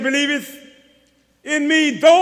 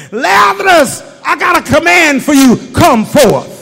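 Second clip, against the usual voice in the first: imperative command; 4 dB louder than usual. Shown as a demonstration. Jesus commanding Lazarus from the tomb, shouted. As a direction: order him out of the grave. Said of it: "an imperative sentence".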